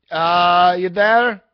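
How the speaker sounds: put-on loud, thickly accented Hispanic truck driver; thicker Hispanic accent. Driver calling at night, thick Hispanic accent. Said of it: "an even thicker accent".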